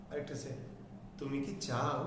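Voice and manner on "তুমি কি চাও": soft, low, quick কি before চাও; short কি. Shown as a demonstration. Teacher asking whether you want it, short কি. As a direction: keep কি short and put the question on চাও. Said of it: "ছোট করে দ্রুত উচ্চারণ".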